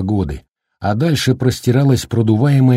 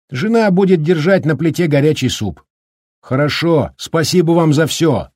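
громкий голос Даркина; 8 semitones higher than usual. Acted. Даркин кричит на ветру.

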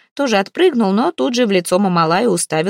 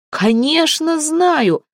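high, slow eager cry; joyful shout; 9 semitones higher, much slower than usual. A narrator's reading. Mamalai answers the leader with glad relief, high and slow. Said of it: "радостно закричал Мамалай".

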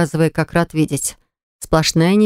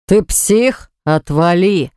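roared; much slower than usual. Acted. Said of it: "взревел Баграт".

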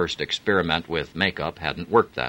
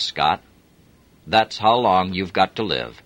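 cold menace; 3 semitones higher, 4 dB louder, slower than usual. Acted. Romanoff threatening Scott, lightly voiced cold menace. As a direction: pronounce the death sentence calmly.

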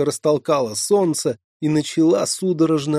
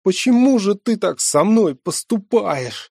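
high, loud anguished wail; wailing cry; 8 semitones higher, 6 dB louder than usual. Acted. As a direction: wail it out in despair. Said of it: "завопил несчастный". (отчаянный вопль)

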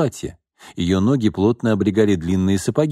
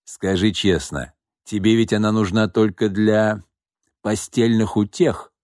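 sly. Acted. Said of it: "хитро прищурился".

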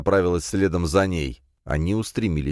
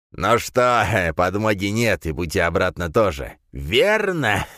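gloating laugh; 2 semitones higher, slower than usual. Acted. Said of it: "злорадно засмеялся Дорн".

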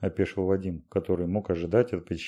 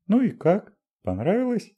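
stern, higher and louder questioning; 13 semitones higher, 4 dB louder than usual. A narrator's reading. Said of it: "сурово спросила Дашенька".

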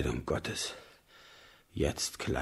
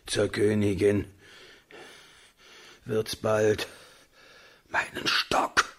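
louder, impatient order; loud command; 3 semitones higher, 4 dB louder than usual. Acted. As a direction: bark the order at the servant. König befiehlt dem Diener. (lauter, ungeduldiger Befehl)

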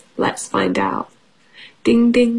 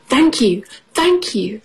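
grateful father mouse; 3 semitones higher than usual. Acted. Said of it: "says Father Mouse".

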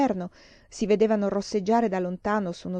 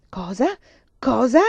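angry question, the second one much louder; outraged, rising demand; roaring; 3 semitones higher, 7 dB louder than usual. A narrator's reading. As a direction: roar it in disbelief, building. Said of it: "ruggì Vasili".

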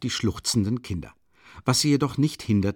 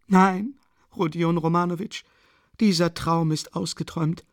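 higher, feverish mother pleading hard; a desperate, proud widow ranting; agitated Katharina; 7 semitones higher than usual. A narrator's reading. Narrator voices Katharina Iwanowna. (erregte, verzweifelte Mutter, höher gesprochen)

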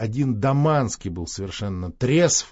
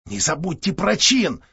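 plain reading voice

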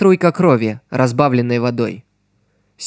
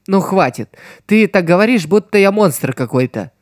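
pouting; 5 semitones higher than usual. Acted. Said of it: "надулась девушка".

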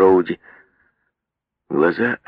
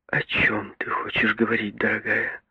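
soft, whispered, timid question; mother asking Agnes timidly in a whisper; 3 semitones higher, 6 dB quieter than usual. A narrator's reading. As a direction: whisper it shyly. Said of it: "спросила робко мама".

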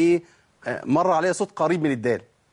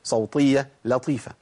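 quoting slowly; slower than usual. Retold or imitated. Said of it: "قال الشيخ جلال الحنفي".

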